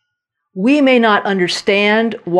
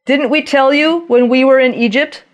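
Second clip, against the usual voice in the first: raised, whiny complaint to Moses; complaining Israelites; 4 semitones higher than usual. Retold or imitated. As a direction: grumble like frightened, bitter people.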